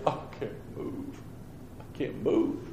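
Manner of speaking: soft, slow, mock-helpless whisper; helpless groan. Preacher reliving being stuck in his chair, helpless groan. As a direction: drag it out weakly, as if stuck in place.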